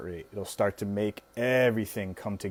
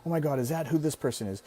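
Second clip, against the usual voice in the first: nervous inner voice; 3 semitones higher, 4 dB quieter, faster than usual. Retold or imitated. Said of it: "as it's talking and saying these things".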